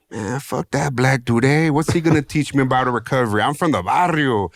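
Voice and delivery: lightly hammed-up young Chicano swagger; cocky barrio kid. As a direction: scoff like a teen who thinks he knows best. Retelling his younger self's brash refusal.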